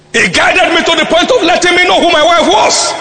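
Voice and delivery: loud, laughing as he tells it. Real, not acted. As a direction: burst out laughing mid-sentence. Laughs recalling finding his wife.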